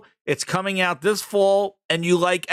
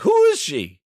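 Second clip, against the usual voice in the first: mock bafflement; 7 semitones higher, 4 dB louder than usual. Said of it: "I'm like".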